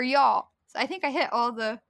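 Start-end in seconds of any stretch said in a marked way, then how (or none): 0.0-0.5 drawn-out Southern "Y'all", a bit louder. Shown as a demonstration.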